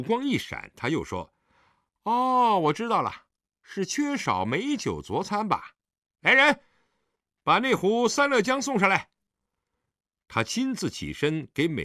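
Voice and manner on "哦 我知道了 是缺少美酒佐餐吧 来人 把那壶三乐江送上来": high, loud, exclaiming host; 恍然高呼. A narrator's reading. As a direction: realize it, then call out to the servants. Host suddenly calls servants for wine. (恍然大悟，高声吩咐下人)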